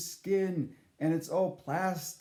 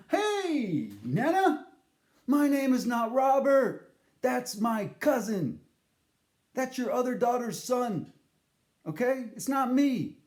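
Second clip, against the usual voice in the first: exasperated correction; 5 semitones higher, 4 dB louder than usual. Retold or imitated.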